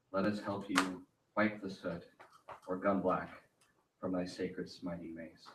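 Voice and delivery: gum in the mouth; chewing gum. Real, not acted. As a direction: talk around a wad of gum. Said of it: "I have gum in my mouth".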